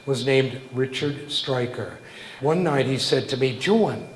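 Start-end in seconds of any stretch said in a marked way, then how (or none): 3.6-4.1 put-on higher-pitched New York accent; a fan's New York accent, imitated; terrible New York accent. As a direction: call out the name with a heavy New York accent. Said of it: "he had a terrible New York accent".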